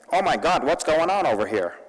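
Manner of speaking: put-on white American guy accent. Speaker mimics a surprised white guy on the morning of the attacks, white guy accent. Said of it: "That's my white guy accent".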